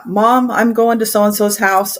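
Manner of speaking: put-on light kid voice, slightly drawn out; imitating kid. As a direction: play the kid announcing where you're off to. Kid telling mom where going.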